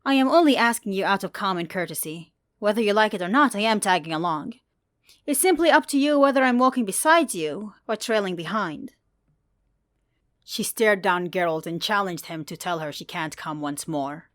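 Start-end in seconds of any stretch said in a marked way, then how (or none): 0.0-8.9 lightly voiced defiant woman, a bit higher; Saray, bold young woman. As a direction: insist on tagging along, playful and stubborn. Saray's voice in story.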